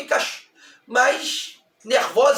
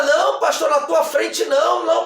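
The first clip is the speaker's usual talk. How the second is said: raised, urgent retold protest; insistent refusal; 4 semitones higher than usual. Young woman refuses her pastor's demand, insistent protest. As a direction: protest firmly in the girl's words.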